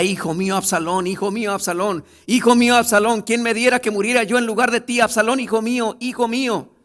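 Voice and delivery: loud, high wailing cry for a lost son; a father wailing over his dead son; anguished lament. Acted. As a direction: cry out his son's name in grief. Voicing David's lament for his son.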